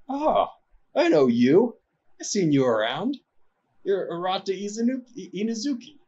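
a tipsy off-duty ninja who just spotted someone famous; drunken ninja. Acted. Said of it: "somewhat drunken".

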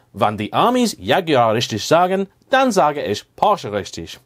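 a hammed-up bad German accent; mock German comeback, a bit stilted. Shown as a demonstration. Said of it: "very bad German".

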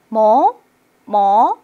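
"뭐" swung up like a question; curious rising tone. Shown as a demonstration. Teacher acting out curiosity, questioning rise. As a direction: ask "뭐" with a strong upward glide. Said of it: "궁금할 때".

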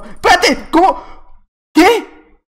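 high, sudden yelps of shock; loud, high-pitched confusion; startled disbelief. Real, not acted. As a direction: blurt it out in alarm. Suddenly killed in the game.

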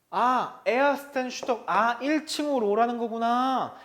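mock dawning understanding; lightly acted realization. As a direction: play a learner who thinks they've understood. Acting out a learner misreading the sign.

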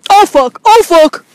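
loud, high startled cry; loud laughing oh fuck; surprised yelp. Real, not acted. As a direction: yelp as the rain hits. Rain suddenly starts.

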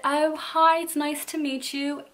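playfully faked British accent; put-on British accent. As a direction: imitate a British girl saying hello. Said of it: "we talked like this".

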